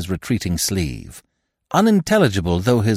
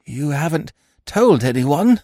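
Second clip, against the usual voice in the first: croaking, anxious whisper of a question; hoarse croak; 6 semitones higher than usual. A narrator's reading. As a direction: croak it out in fear. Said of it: "he croaked hoarsely".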